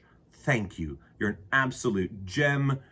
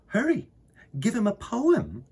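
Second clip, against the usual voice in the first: mother's reply; 13 semitones higher, 5 dB louder than usual. Acted.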